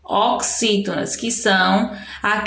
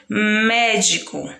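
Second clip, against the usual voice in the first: médico with a long, stressed mé; stress on first syllable; slower than usual. Shown as a demonstration. Teacher giving a proparoxytone example, mé stressed in médico. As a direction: draw out the opening syllable of médico. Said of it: "escrevi uma palavra proparoxítona".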